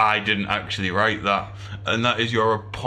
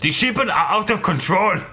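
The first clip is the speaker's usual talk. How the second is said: mock dramatic; 7 semitones higher, 4 dB louder, slower than usual.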